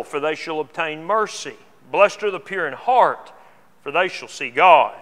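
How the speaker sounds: measured, solemn reading of the Beatitudes; scripture reading. Acted. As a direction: reverent Bible reading voice. Reads the Beatitudes passage aloud.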